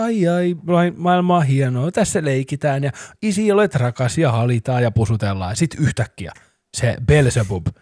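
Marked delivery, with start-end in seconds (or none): 0.0-5.5 lightly voiced sweet little child, raised pitch; a hint of a cooing toddler; angelic toddler.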